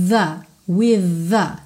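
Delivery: "with the" joined into one flow, voiced TH gliding into "the"; linked with the. Shown as a demonstration. Teacher showing how "with" links into "the". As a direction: run "with the" together. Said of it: "você liga esse som no A".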